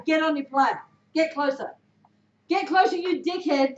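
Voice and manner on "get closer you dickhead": belittling jab at a teammate; insulting coaching shout. Shown as a demonstration. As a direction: rude version, mock put-down. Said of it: "doesn't go down the same way".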